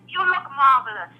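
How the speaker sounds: half-hearted catchphrase impression; shaky-footed try at an impersonation; failed Fernando imitation. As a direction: attempt the suave showman voice and miss. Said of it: "I can't even do it".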